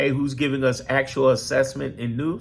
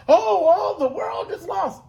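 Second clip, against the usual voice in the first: much higher, slow, whiny wail of despair; hammed-up high doom wail; mock doomer; 13 semitones higher, slower than usual. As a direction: wail it like the sky is falling. Mocks doom-and-gloom people.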